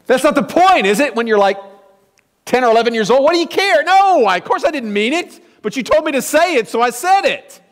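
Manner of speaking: put-on high, whiny protest of a ten-year-old; indignant kid voice. Boy protesting to his mother about the apology, high and whiny. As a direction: squeal it like a put-upon child.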